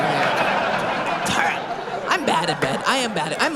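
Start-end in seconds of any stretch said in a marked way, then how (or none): 0.0-2.1 breathless whisper through a laugh; a quick whispered joke-retraction; whispered aside. Real, not acted.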